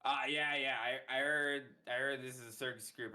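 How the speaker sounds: high, fast, eager clown patter; silly clown. Acted. Clown auditioning in character.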